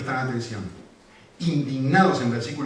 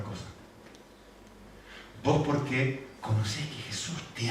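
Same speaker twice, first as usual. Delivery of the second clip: tender father. Retold or imitated. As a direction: soothe your little girl. Father comforts his crying daughter.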